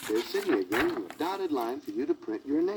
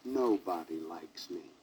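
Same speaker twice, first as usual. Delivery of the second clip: sobbing; 7 semitones lower, 3 dB quieter than usual. A narrator's reading. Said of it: "he sobbed".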